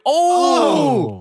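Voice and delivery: excited yelp. Real, not acted. Reacting to a brutal hit.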